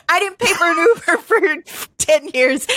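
put-on failed Irish accent, laughing; bad Irish accent. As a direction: giggle through a hopeless Irish accent. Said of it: "I'm not even gonna try".

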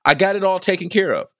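high, rushed reassurance to Ma; pleading with mom. Retold or imitated. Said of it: "I was like".

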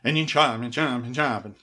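mock Swedish Chef, burbling along. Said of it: "feels all Swedish Chef".

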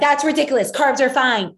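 scoffing mock retort; dismissive parent. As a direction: imitate a parent brushing it off. Mimics a dismissive parent's reply.

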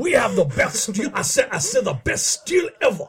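mock Southern accent. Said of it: "that southern accent that we do".

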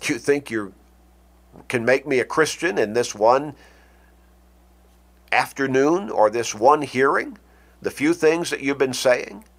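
mildly mocking question, half scoffing; a light touch of scorn, doubting Paul's nerve; sarcastic. Shown as a demonstration. Agrippa scoffing at Paul's quick persuasion, mild sarcasm. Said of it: "Or was he being sarcastic?".

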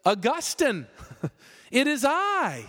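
a hint of a haughty lady; offended lover. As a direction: hands on hips, lightly voiced. Offended ex-lover calls him.

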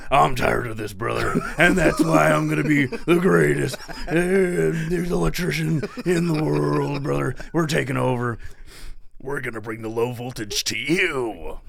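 loud hyped pitchman, calling everyone brother; infomercial voice. Retold or imitated. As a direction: sell it like a late-night infomercial. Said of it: "that just sounded like an infomercial".

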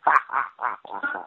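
mock rock-star laugh, lightly done; imitated rock singer's cackle. Prankster laughing at the band after stink bombs, mock cackle. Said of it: "laugh at us in the Ozzy Osbourne voice".

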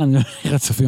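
ordinary talk

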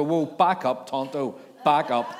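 slow, laughing "whoa, back up"; laughing mock alarm. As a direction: rein the story in with a laugh. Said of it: "I just read that and I go".

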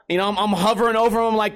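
ordinary talk

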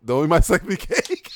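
hammed-up line from a movie; film quote impression. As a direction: mimic the film character, slowly and emphatically. Quoting a Congo film character.

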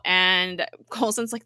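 ordinary talk

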